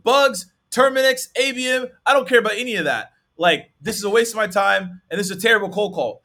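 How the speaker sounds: high, loud ranting prospect; angry rant. Retold or imitated. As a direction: blow up at a caller wasting your time. Prospect yells then hangs up.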